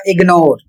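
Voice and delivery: इग्नोर said with a clear g sound, ig-nor; model pronunciation. Shown as a demonstration. Teacher modelling इग्नोर for students, g clearly sounded. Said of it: "इसका उच्चारण होगा".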